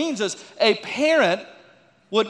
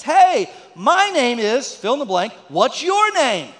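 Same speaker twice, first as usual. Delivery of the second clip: imitating little girl; 3 semitones higher, slower than usual. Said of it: "and she says".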